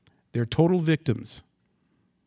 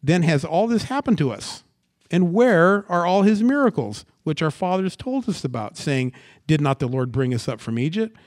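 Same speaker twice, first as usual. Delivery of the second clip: raised, insistent grievance read aloud; Gideon's complaint; 4 semitones higher, 3 dB louder than usual. Acted. Gideon blaming the Lord for abandoning them, insistent raised complaint. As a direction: press the complaint at God in a higher voice. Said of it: "You ever talk like that?".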